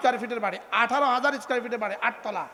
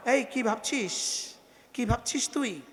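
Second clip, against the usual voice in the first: scolding rebuke; 2 semitones lower, 9 dB quieter, slower than usual. Retold or imitated. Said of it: "ধমক দিয়ে আল্লাহ তাআলা বলেন".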